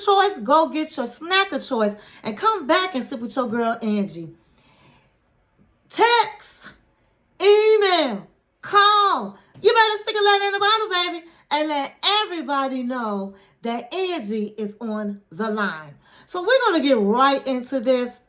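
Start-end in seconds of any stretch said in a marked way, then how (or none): 5.9-16.0 hype catchphrase. Real, not acted. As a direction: sell it like a radio promo.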